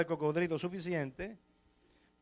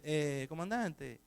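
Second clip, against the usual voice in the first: softer, slow and hesitant; timidly; 6 dB quieter, slower than usual. Retold or imitated. Pastor timidly asking the captain about the record, softer. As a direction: ask meekly, afraid to bother him. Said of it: "digo yo tímidamente".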